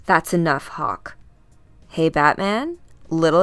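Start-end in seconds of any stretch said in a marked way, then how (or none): 0.0-1.2 stern warning. Acted. Cutting off an angry teammate.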